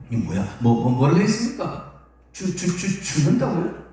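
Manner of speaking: stammering "뭐, 뭐, 뭐라고" in mock shock; disciple's stunned inner reaction to the news; stunned disbelief. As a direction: stumble over the words as if thunderstruck. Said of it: "이랬다는 거예요, 지금 마음속으로".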